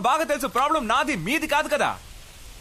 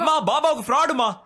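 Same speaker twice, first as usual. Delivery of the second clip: higher and louder, pressing the point; insisting louder; 5 semitones higher, 4 dB louder than usual. Real, not acted. Son insisting to his mother, louder and higher. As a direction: raise your voice so she finally listens.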